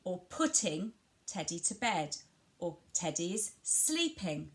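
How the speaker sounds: PUTTING and SLEEPING stressed; stress on action words. Shown as a demonstration. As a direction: lean on putting and sleeping for a child. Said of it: "You'd start emphasising that word".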